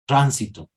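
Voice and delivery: "tránsito" with a hissing sibilant tr; assibilated r. Shown as a demonstration. Teacher modelling Sierra r to class. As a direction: Highland Ecuador "tránsito", the r buzzed like zh. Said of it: "en la sierra decimos".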